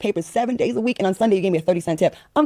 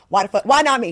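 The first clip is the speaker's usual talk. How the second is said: indignant why-not-me protest; bitter outburst. Acted. Guest imagines envying the rescued woman, bitter outburst. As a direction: demand to know why you were passed over. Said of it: "I would have been a little bitter".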